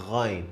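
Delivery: 'Ghain' with a gargled uvular gh, a held ending; Arabic letter Ghain. Shown as a demonstration. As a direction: rasp 'Ghain' from the back. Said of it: "this is how we say".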